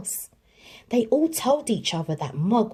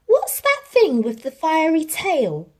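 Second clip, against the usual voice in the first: higher, louder alarmed cry; startled onlooker; 9 semitones higher, 5 dB louder than usual. A narrator's reading. Passer-by seeing the burning cat, startled. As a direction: shout it out in surprise. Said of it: "said one".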